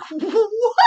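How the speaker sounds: high, laughing what; a startled laugh of disbelief; half-laughing surprise. Retold or imitated. Her friend says nothing, she reacts.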